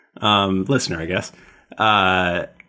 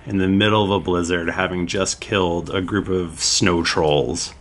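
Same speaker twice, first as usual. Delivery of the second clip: game master narration; 3 semitones lower than usual. Acted. Game master's scene setting.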